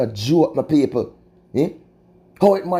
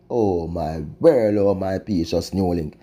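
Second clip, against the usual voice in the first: drawn-out mournful refrain; slow lament; 4 semitones lower, slower than usual. Real, not acted. Vlogger repeating refrain to viewers, slow mournful lament. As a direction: drag it out, heavy with dismay.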